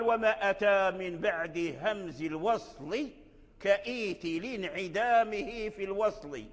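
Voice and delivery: slow, measured didactic verse; verse recitation. Shown as a demonstration. Teacher quoting the versifier, slow measured recitation. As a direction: recite the rhymed line slowly. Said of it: "الناظم قال".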